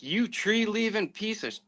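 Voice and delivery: retold furious outburst, pitched high; an angry hunter swearing at a useless dog. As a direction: spit it out as if cursing the dog. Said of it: "And now I'm furious".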